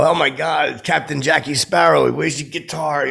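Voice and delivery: mock starstruck greeting; starstruck fan. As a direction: gush at a celebrity. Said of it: "I do that to him".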